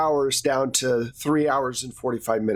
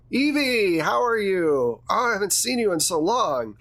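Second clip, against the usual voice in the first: effusive greeting; 5 semitones higher than usual. Acted. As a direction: greet a long-lost colleague effusively. Director effusively greets an old acquaintance.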